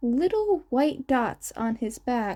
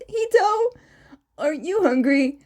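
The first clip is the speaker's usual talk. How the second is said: higher, bright fatherly call; cheerful dad to his son; 4 semitones higher, 4 dB louder than usual. Acted. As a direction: call gently up to the little boy. Father voice to child.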